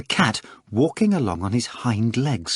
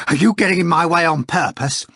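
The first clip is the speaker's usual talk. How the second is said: higher, loud furious accusation; furious cry; 7 semitones higher, 5 dB louder than usual. A narrator's reading. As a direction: snap at the blocker in fury. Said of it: "Ivan cried furiously".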